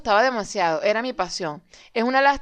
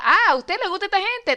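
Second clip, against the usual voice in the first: voicing the algorithm; 8 semitones higher, 3 dB louder than usual. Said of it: "para que el algoritmo diga".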